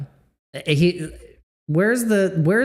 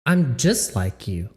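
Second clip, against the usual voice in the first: lower mocking repeat; 7 semitones lower than usual. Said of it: "I'm like you".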